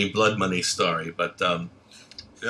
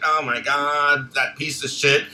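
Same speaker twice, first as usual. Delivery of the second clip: mock gossip; 4 semitones higher than usual. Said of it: "she's like".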